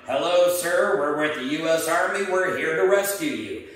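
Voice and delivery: loud official announcement, lightly acted; mock megaphone yell. Army rescuer to stranded man, mock megaphone call. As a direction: imitate a rescuer hailing through a megaphone. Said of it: "guy in the loud megaphone yells down".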